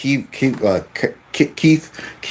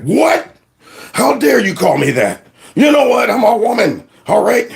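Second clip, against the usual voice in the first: mock indignation; 4 semitones higher than usual. Player indignantly retorts.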